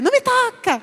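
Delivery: high sharp mock protest; wife snapping back. Wife pushing husband away, sharp high protest. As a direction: shrug him off, pitch jumping up. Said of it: "E ela vai dizer".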